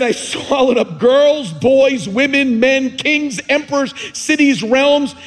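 loud, even, unboastful lion voice; just state it, no boast or anger; matter-of-fact lion. A narrator's reading. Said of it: "didn't say it as though he was boasting".

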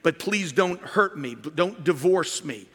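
a light mocking voice begging not to be punished; pleading penitent. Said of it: "This is the reward repentance".

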